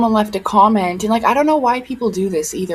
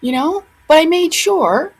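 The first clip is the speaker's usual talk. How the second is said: angry rant; 7 semitones higher than usual. Real, not acted. Ranting at rude commenters.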